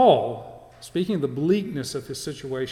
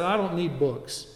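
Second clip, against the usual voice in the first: mocking fanatic; 2 semitones higher, 3 dB louder than usual. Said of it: "that mindset".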